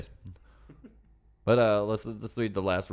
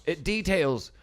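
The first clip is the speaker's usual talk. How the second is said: higher, very slow theatrical reading; slow dramatic read; 9 semitones higher, 3 dB louder, much slower than usual. Pretend. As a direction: stretch every word out grandly. Reading review in put-on voice.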